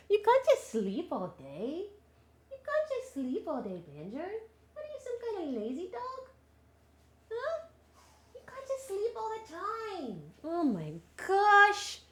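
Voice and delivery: put-on high baby talk to a dog; mock scolding. Teasing the lazy dog, high mock-scolding voice. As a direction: playfully chide a pet, pitched high.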